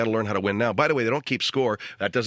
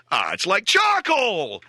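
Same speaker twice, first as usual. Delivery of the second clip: put-on whiny kid; 8 semitones higher, 4 dB louder, much slower than usual. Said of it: "ten-year-old kid flipping a steak around going".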